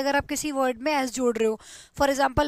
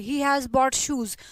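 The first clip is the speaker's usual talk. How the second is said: slow dictation; much slower than usual. Shown as a demonstration. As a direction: read it word by word for the class. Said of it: "dictating example sentence". (बहुत धीरे, ज़ोर से लिखवाना)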